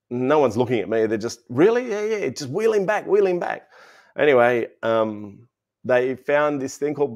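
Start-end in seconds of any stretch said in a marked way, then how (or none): 1.5-1.9 higher, louder startled question; as if the news just landed; surprised doctor. Retold or imitated. 1.9-3.7 higher, brisk doctor order; lightly voiced busy doctor; hurried doctor.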